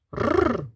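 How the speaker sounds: rolling growl; dog growl. A narrator's reading. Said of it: "насторожилась".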